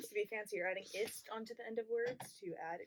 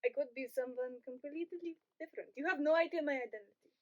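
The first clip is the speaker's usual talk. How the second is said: lightly raised put-on voice; disguised voice; 4 semitones higher than usual. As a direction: keep your identity hidden in the voice. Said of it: "She's disguised her voice".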